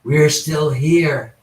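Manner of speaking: very slow, drawn-out ghostly message; imitated spirit voice. Investigator retells his brother's recording, slow imitated spirit voice. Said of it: "kind of a masculine voice says".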